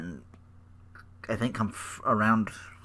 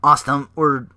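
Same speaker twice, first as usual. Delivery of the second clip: light mocking of smug divas; mock cheer; 7 dB louder than usual. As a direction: brag like a clique. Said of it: "the Bella Club is like".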